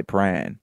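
Pran said as one short syllable, no second vowel; clipped mispronunciation. Retold or imitated. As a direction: say it the lazy way, Pran. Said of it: "people don't pronounce it how it's spelt".

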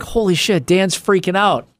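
hammed-up 911 caller; mock frantic caller.

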